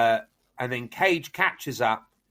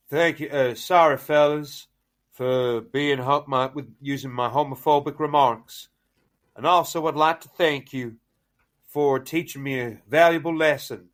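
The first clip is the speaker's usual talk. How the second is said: put-on Southern accent; 2 semitones higher than usual. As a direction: put on a movie hero's polite Southern accent. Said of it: "and he goes".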